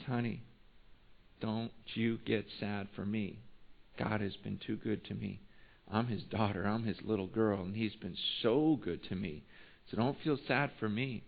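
soft, low, tender comforting; hushed, loving insistence; gentle reassurance. Retold or imitated. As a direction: quietly soothe someone who is sad for you. Patient gently reassures her pastor.

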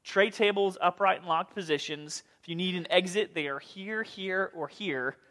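lightly voiced cabin announcement; flight attendant. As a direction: point out the exits like cabin crew. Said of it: "we have a fantastic time travel device".

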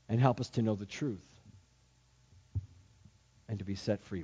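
earnest pastoral prayer; sermon's closing prayer. Acted. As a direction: pray over the congregation, rising then hushed.

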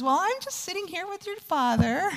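high-pitched imitation of a mom; retold mother. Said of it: "And Missus Bush says".

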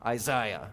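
Isaiah said eye-ZY-ah; mock Carson Isaiah. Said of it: "We said".

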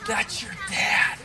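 put-on high, drawn-out child's voice; awed kid. Another kid to the preacher's daughter, high awed voice.

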